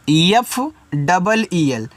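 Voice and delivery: slow letter-by-letter spelling; each letter drawn out. Shown as a demonstration. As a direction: spell it out slowly for the class. Teacher spells word by letters.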